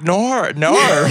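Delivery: high, sing-song Australian "nor"; Aussie no, drawn out; Australian accent. Retold or imitated. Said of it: "read the comments ... in an Australian accent".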